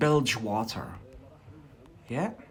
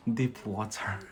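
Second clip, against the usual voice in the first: Scottish accent; 2 semitones lower, 3 dB quieter than usual. Shown as a demonstration. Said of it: "I prefer the Scottish one".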